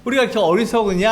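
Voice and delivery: retold angry rebuke. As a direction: voice Bildad scolding Job, building in anger. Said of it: "이 빌닷이 화를 내는 거죠".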